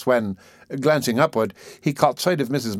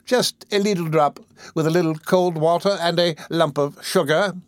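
coaxing nurse; 7 semitones higher than usual. A narrator's reading. Mrs Mann's coaxing voice.

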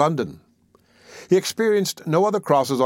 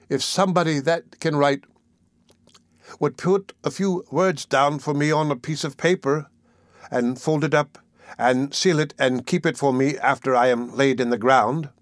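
put-on faltering child; 3 semitones higher than usual. The dying child asks for a letter, faltering. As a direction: plead timidly in little phrases. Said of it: "faltered the child".

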